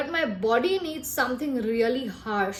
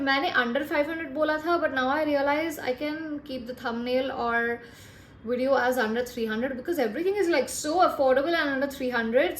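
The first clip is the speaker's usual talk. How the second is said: rushed talking. Real, not acted. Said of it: "मैं बहुत fast बोल रही हूँ".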